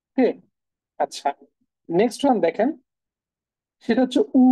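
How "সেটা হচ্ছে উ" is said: উ held clear as the German U; German letter name. Shown as a demonstration. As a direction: model the vowel উ for learners. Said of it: "ইউর যে উচ্চারণ সেটা হচ্ছে উ". (German U-এর নাম উ স্পষ্ট করে)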